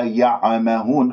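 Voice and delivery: يعمهون with a little echo vowel after ع; bounced ayn. Shown as a demonstration. Teacher shows the wrong qalqala, bouncing ayn. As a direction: bounce off the ع so it sounds ya-a-mahun. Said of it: "ما أخرجها مقلقلة".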